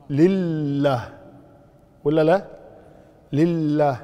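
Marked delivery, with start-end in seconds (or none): 0.1-1.1 لله slowly with a lengthened, clear double lam; doubled lam. Shown as a demonstration. Teacher counting shaddas with students, doubled lam in لله. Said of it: "التشديد عبارة عن حرفين". 3.3-4.0 لله with the lam clearly geminated; doubled lam. Shown as a demonstration. Teacher counting the first shadda, held double lam in لله. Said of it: "هذه واحدة".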